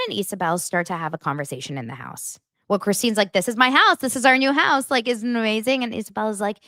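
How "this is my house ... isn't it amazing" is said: higher, louder mock-excited boast; gushing. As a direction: gush about it, pitched up. Voices Christine showing off house.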